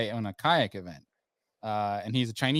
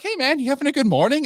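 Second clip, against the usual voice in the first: much higher and louder, fake cheerful; mock peppy hello to a staring dock owner; over-peppy greeting; 13 semitones higher, 7 dB louder than usual. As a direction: greet the grumpy owner with overdone pep. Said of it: "super over, like, peppy".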